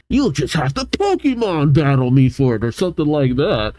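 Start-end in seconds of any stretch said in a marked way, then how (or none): 0.1-2.6 lightly put-on challenger voice; mock gym leader. Imagined gym leader challenging a visitor, mock gym leader voice. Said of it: "expect her as a gym leader to be like".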